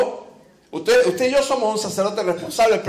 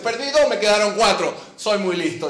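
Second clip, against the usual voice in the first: smug devil. Acted. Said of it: "dice el diablo".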